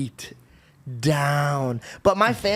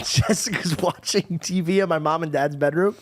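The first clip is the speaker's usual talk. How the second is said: normal talking voice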